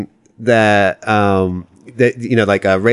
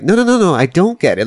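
adamant; 7 semitones higher than usual. Retold or imitated. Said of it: "he gets really adamant".

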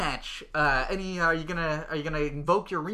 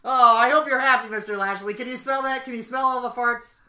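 high mock outrage; 6 semitones higher, 9 dB louder than usual. Host scolding after the mess.

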